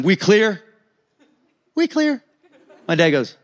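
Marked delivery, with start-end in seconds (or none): 0.0-0.6 firm, measured question; imitated tough dad insisting; threatening demand. Dad asking one more time. 1.7-2.2 very high, meek reply; mock-scared neighbor agreeing; intimidated little guy. Intimidated little dad answering again.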